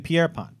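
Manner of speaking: "Pierpont" as pee-AIR-pont; French way. Shown as a demonstration. Host echoing the reporter's version, French way. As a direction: say "Pierpont" with Pierre at the front. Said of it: "It's the French way".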